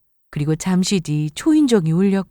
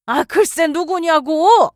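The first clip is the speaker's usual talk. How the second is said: slow, high, insistent shout; angry demand; 9 semitones higher, slower than usual. Acted. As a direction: drag out each word in anger. Mother-in-law demands answer.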